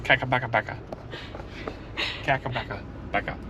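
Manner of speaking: Kakabakapaka with extra ka and pa syllables tumbling out; garbled place name. Shown as a demonstration. Husband mangling the falls' name on purpose, garbled. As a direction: stumble through "Kakabakapaka", all short a's and too many syllables. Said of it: "I know that's not how you say it".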